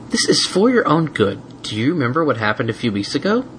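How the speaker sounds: firm but kind mare; gentle mare voice. Acted. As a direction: gently explain. Twilight voiced.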